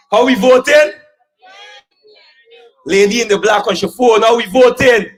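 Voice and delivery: loud rally call-and-response; single out the lady and demand an answer; shouting at a rally listener on her phone; calling out to crowd. Real, not acted. Orator calls out to crowd.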